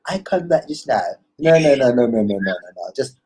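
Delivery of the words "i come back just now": easy Caribbean lilt; relaxed Caribbean accent. Shown as a demonstration. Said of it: "too much energy".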